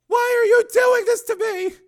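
high, slow, wailing woman's plea; anguished shout. Acted. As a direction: cry out in hurt, drawn out.

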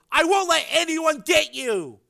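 high, slow, forceful shout; protective yell. A narrator's reading. Frank protecting his crazed brother, protective yell. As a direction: shout a desperate promise. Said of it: "Frank yelled".

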